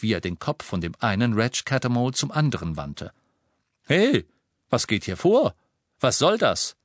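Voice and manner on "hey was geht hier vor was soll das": alarmed. Acted. Official protests in confusion.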